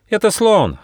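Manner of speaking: high, eager little mouse; excited mouse exclamation; joyful cry. Acted. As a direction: blurt the guess out gleefully, pitched high. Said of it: "радостно крикнул мышонок".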